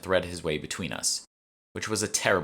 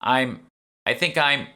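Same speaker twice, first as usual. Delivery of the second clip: faked queasiness; 8 semitones higher, 6 dB louder, slower than usual. Faking vomiting in stall.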